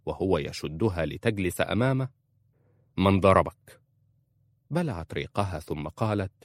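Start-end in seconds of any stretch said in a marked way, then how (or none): 3.0-3.8 louder, alarmed question; husband alarmed, demanding an answer. A narrator's reading. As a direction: demand to know who hit her. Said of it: "نظر إليها في فزع".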